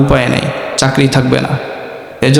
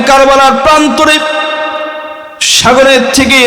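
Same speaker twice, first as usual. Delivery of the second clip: pompous pir. Retold or imitated. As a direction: play the pir's pious excuse. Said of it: "বলে".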